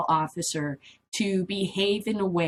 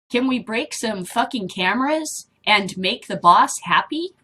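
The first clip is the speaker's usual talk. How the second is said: louder, punchy mock-officer delivery; acted tough quote; 3 semitones higher, 6 dB louder than usual. Vlogger reading out a raiding officer's words, loud and punchy. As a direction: punch it out like a brash cop.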